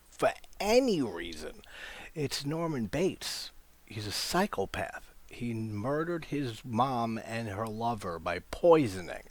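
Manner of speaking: real scoffing incredulity; incredulous. Real, not acted. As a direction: stretch the key words in exasperated disbelief. Scoffs at drinking Norman's coffee.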